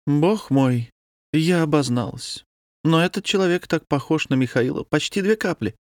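ordinary delivery, nothing marked

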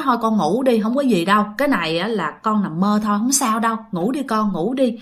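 gentle hush; soothing. Retold or imitated. Grandmother calms her scared young son, mild soothing voice. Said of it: "bà nội mới dỗ dành".

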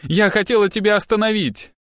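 high, tearful outcry; sobbing outburst. A narrator's reading. Cornered girl confesses to the detective, wailing. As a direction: wail it out, pitched right up. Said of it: "девица зарыдала в голос".

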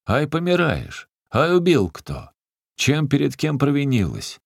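a big man yelling in alarm; rough alarmed shout. Acted. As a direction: bellow the worried questions down at her. Zakhar shouts at fallen old woman.

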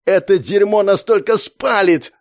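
high, loud angry bark; harsh barking. A narrator's reading. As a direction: snap at her furiously. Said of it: "рявкнул он".

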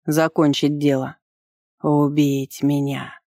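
slow, stretched-out dragon mockery; sneering, unhurried beast; mocking drawl. A narrator's reading. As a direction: draw it out to taunt your opponent. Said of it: "протянула тварь насмешливо".

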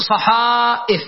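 صحائف with a long held aa before the hamza; drawn-out vowel. Shown as a demonstration. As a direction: stretch صحائف slowly up to the glottal stop. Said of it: "فأقول".

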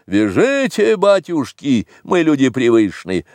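слегка разыгранная готовность покориться; напевно, с повышенного тона к обычному; покорная мелкая сошка. Acted. Figure's submissive cry voiced in story. (покорно, по-простонародному)

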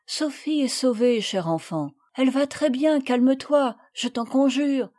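mildly reassuring, steady tone; calm the child down gently; a lightly voiced mother soothing her daughter. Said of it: "lui dit avec assurance".

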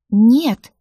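loud, high outraged cry; indignant shout. A narrator's reading. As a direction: shout it as she jumps from the chair. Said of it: "возмутилась я".

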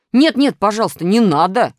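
high, loud lamenting; wailing plea. A narrator's reading. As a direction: beg and wail to be spared. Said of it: "запричитал Минус".

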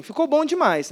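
emphatic Goiano approval. Acted. Pastor showing the church how Goianos praise things, emphatic approval. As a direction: imitate a delighted Goiano's verdict. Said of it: "O goiano, ele fala assim".

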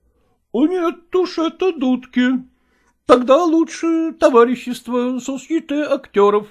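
a lightly voiced indignant actor. A narrator's reading. Actor Chechentsev to Malkova, lightly voiced and indignant.

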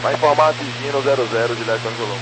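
radio-filtered pilot voice; thin, crackly radio transmission; pilot over the radio. Real, not acted. Pilot reading back on radio.

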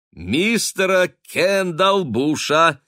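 high, loud and slow, beaming; joyful prompt. A narrator's reading. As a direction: savour the name with delight. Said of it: "радостно подсказала".

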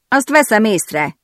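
slow, dry sarcastic remark. A narrator's reading. Patrick answering Harper with slow sarcasm. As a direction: drag it out with a sneer. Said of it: "jegyezte meg gúnyosan Patrick".

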